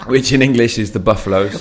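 light put-on Jamaican accent. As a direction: say it with a Jamaican lilt. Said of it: "Why did you set up a Jamaican accent?".

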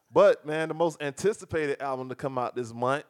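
loud, high-pitched hyped announcement. Real, not acted. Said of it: "that nigga voice got high".

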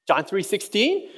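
slow, unsure little question; hesitant child. Retold or imitated. Daughter hesitantly answers dad's question, unsure. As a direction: offer the verse like a guess. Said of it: "and she goes".

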